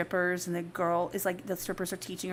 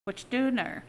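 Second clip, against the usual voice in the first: redneck quote. Retold or imitated. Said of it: "my kids and I say".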